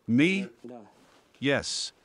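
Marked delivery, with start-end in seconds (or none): 0.1-0.5 sudden high, louder "Me?"; surprised. Real, not acted. Old woman asked about the war, surprised. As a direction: caught off guard, pitch jumps up.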